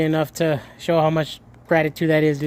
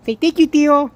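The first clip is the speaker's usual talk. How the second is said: coaxing high voice; 7 semitones higher, 4 dB louder than usual. Acted. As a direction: coax the pet to say thank you. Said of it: "I'm talking to you".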